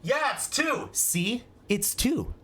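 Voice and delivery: high, exasperated know-it-all; mock taunting. Mocking a blind person's failure, mock taunting. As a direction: lift the voice as if it's glaringly obvious.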